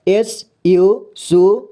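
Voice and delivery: letters drawn out slowly while writing; slow spelling. Shown as a demonstration. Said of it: "अंग्रेजी में यहाँ पे सुखलाल लिख रहा हूँ". (धीरे-धीरे अक्षर बोलकर लिखना)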